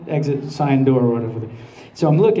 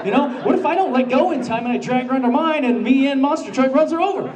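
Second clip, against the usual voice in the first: panicky; 6 semitones higher, faster than usual. Retold or imitated. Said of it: "I'm like".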